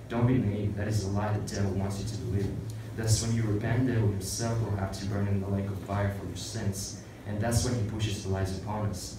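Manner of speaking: firm sermon delivery to the congregation; preaching. Acted. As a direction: preach it as a warning against sin.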